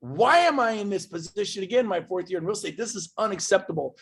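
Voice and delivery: a retold burst of frustration; upset. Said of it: "So I got upset".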